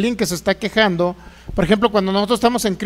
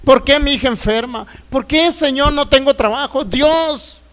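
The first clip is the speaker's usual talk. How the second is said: re-enacted plaintive protest, raised pitch; higher, pleading lament; complaining to God; 4 semitones higher than usual. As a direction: cry out your grievance to heaven. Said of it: "Yo antes me quejaba contra Dios".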